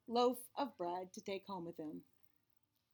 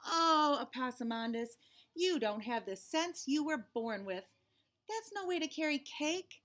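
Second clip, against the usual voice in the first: exasperated mama; 3 semitones higher than usual. Acted. Mama scolding Opossumandus for squashing the cake, exasperated. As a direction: sigh it out, then scold with patient exasperation.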